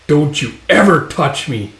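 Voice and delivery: heavy stress on "ever"; emphatic acted warning, punching "ever"; stern warning. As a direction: lean hard on "ever" as a threat. Guts warns the man.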